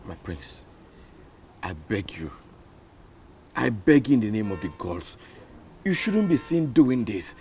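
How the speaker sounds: low, soft, halting entreaty; hushed pleading. Acted. Commoner begging a prince to compose himself, hushed pleading. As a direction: beg gently and respectfully.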